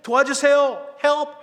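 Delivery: high, loud cries from someone trapped; acted survivor shouting out; shouted plea for help. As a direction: yell desperately to be rescued. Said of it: "하면서 소리를 질렀습니다".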